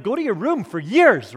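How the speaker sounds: fake-banish the kid in mock panic; mock outburst. Dad jokingly sends his son away, mock outburst.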